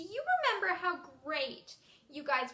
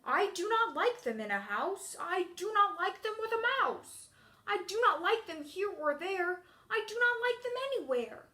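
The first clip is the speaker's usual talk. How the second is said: grumpy character voice. Shown as a demonstration. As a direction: refuse each offer like a storybook grouch. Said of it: "I'm gonna use a grumpy voice".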